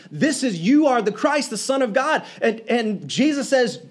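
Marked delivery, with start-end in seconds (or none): 0.1-2.2 proclaiming. Retold or imitated. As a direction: announce it like a triumphant discovery. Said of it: "like, proclaiming".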